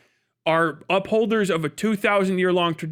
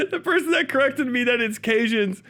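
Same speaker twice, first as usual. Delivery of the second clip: higher voice through laughter; laughing; 5 semitones higher than usual. Real, not acted. Streamer cracking up over a Cajun's name, laughing. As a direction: talk while cracking up.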